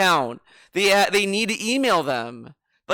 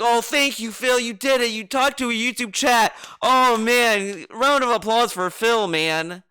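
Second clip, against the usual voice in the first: higher-pitched, sarcastic fawning; mock gushing praise; 4 semitones higher than usual. Viewer mocking the thanks expected for Phil, mock gushing praise. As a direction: gush like a fake adoring fan. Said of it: "bend over for him and be like".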